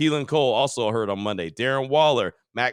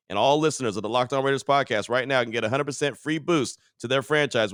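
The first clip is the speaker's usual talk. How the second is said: upbeat host-read podcast promo; sponsor ad read. Acted. Podcast host pitching a mobile football game to listeners, ad read. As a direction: sell it to the listeners, phrase by phrase.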